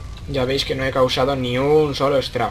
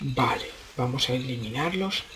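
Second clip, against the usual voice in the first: hushed; 2 semitones lower, 8 dB quieter than usual. Pretend. Stealth narration, hushed.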